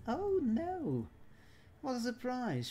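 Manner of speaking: high-pitched theatrical alarm; hammed-up cry of dismay; mock dismay. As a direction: exclaim it high, in playful horror. Mock dismay at game event.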